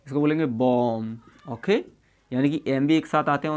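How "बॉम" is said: "बॉम" ending on a long M, no B; silent B. Shown as a demonstration. Teacher models the word for learners, "बॉम" with silent B. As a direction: close "बॉम" on the M. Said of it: "बी silent हो".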